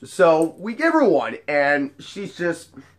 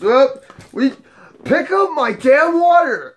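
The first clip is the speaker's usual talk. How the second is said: put-on higher, louder drunken shout at the bouncer; mock drunken yell; 9 semitones higher, 4 dB louder than usual. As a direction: bark the order like a spoiled drunk. Drunk customer yelling at bouncer.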